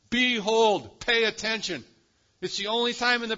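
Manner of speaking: loud, ringing "Behold" as God's command; commanding call. Retold or imitated. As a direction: proclaim "Behold" like a divine summons. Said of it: "speaks with this intensifying command".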